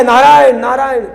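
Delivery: dying father calling his son. Retold or imitated. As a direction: cry out the son's name. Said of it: "चिल्लाया".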